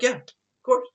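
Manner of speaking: sarcastic sure-thing; mock agreeable. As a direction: fake cheerful agreement. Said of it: "I'm like".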